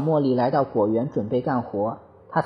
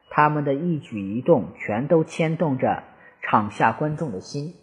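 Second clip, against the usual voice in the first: plain reading voice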